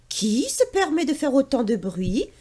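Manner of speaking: lightly voiced little bird, annoyed; a bird scolding the noise. Sacha the bird scolds Pierre, lightly voiced. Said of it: "dit l'oiseau nommé Sacha".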